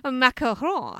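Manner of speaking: "macaron" with a French throaty r; put-on French accent. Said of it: "when you're trying to put it on".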